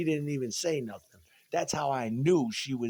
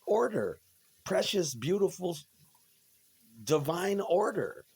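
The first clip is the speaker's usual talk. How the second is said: high, slow, reverent praise; rapturous; 6 semitones higher, 3 dB louder, slower than usual. Acted. Ranting about jail, he hymns order with high reverence. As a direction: savor each word like a sermon.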